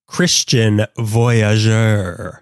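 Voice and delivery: Christian Voyageur said very slowly, syllable by syllable; slow careful name. Shown as a demonstration. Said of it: "Say their name".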